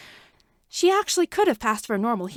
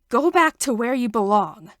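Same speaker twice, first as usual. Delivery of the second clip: louder stern command; shouted; 6 dB louder than usual. A narrator's reading. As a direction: order her out, loud. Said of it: "he shouted at her".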